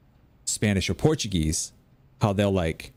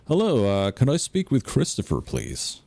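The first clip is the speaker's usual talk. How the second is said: put-on phone-call American accent, pitched up, falling at the end; 4 semitones higher than usual. Puerto Rican friend calling up as an American, put-on accent. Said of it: "he could do an American accent".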